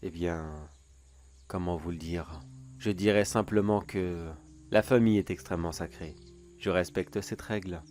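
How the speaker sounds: theatrical sinister storyteller voice; gloating villain monologue. Acted. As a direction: tease the listener like a smug creep.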